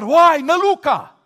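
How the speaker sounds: mock scream. Twelve disciples screaming in chorus, hammed-up. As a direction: shriek like a scared crowd. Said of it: "să țipe toți în cor".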